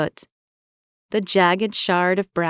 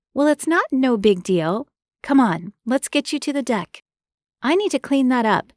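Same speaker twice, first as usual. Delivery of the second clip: insistent woman voice; 6 semitones higher than usual. Acted. Marie insists.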